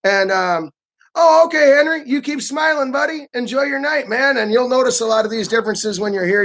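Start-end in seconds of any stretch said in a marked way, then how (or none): 1.1-4.4 polite American host. Retold or imitated. Mock polite American farewell.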